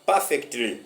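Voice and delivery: high, loud rallying question to the class; rousing high call. Real, not acted. Teacher rallying his English learners, high and loud. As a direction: fire the viewers up with a big rising question.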